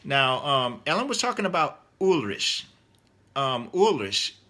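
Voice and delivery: ordinary talk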